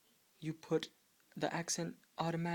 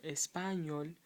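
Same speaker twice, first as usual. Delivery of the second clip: "español" stressed on pa instead of ñol; wrong early stress; slower than usual. Shown as a demonstration. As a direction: hit the PA in "español". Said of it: "It just automatically falls on the end".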